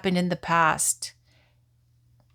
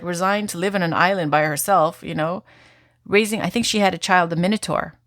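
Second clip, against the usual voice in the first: ordinary talk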